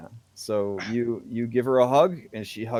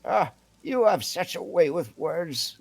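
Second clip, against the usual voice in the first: higher-pitched, teasing character voice; lilting higher tease at a smooth talker; teasing Owland; 8 semitones higher, 3 dB louder than usual. Acted. Owland ruffles his hair over his fine words, teasing higher voice.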